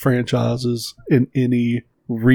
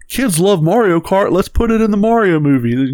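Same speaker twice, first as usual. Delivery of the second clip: mocking studio execs; 6 semitones higher than usual. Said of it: "because they're like".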